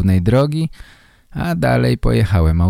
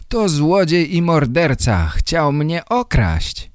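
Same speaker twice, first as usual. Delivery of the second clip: much higher accusation, slowing to the end; shouting; 8 semitones higher, slower than usual. A narrator's reading. Photographer denouncing the man to the policeman, mild mock shout. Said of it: "krzyczał fotograf".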